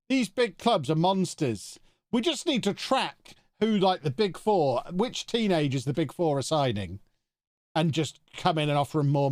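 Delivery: animated rant. Real, not acted. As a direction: complain with fire. Ranting about big clubs.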